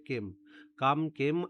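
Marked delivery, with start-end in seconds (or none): 0.1-0.2 কেম with an "ay"-like vowel; careful pronunciation. Shown as a demonstration. Teacher asking students to remember the sound, careful pronunciation. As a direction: model কেম for learners to remember. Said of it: "উচ্চারণটা হবে কেম".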